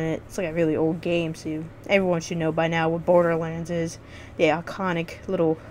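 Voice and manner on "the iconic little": halting, stumbling over the words; stuttering. Real, not acted. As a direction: trip over the words as you go. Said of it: "There I go, stuttering".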